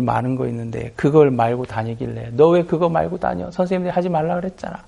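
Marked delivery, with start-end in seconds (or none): 2.3-4.8 higher-pitched mock telling-off; imitated reproach, pitched up; acted scolding. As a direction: act out a pupil nagging another. Acted scolding between pupils.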